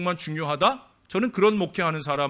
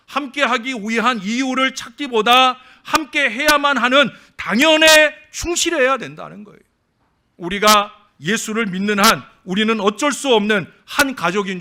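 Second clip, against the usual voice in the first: loud, raised preaching voice; 7 semitones higher, 8 dB louder than usual. Acted. Pastor urges the church to be family, preaching loud. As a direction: press the point like a sermon climax.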